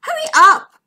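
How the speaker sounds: loud, high, impatient urging. A narrator's reading. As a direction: urge them on loudly. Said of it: "urged McMeer".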